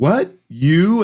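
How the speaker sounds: put-on, high-pitched, teasing and sarcastic tone. Retelling what a person at a UX meetup said: imitating a sarcastic remark. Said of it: "they were trying to be sarcastic".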